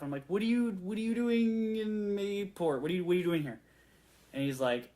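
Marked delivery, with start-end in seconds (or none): 0.3-3.6 starstruck excitement. Retold or imitated. Fan asking the movie producer why he's in Mayport, excited and high. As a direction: blurt it out, barely containing the thrill. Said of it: "I'm, like, freaking out a little bit".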